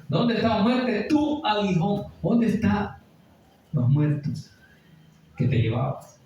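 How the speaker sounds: high, slowed preaching challenge; rhetorical question. Acted. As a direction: taunt death from the pulpit. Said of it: "se hace esa pregunta".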